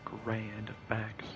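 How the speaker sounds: lightly voiced Dr. Phil; Dr. Phil impression. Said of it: "he'd be like".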